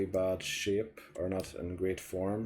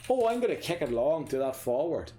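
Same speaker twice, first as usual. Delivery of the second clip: mocking the player; 5 semitones higher, 4 dB louder than usual. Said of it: "he would have said it in a different accent".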